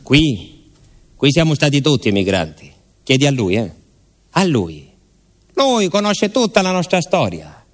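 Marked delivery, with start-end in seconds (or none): 4.3-7.6 much higher, insistent bar regular; insistent villager. Acted. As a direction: insist he knows everyone's story. (paesano al bar, voce molto più alta e insistente)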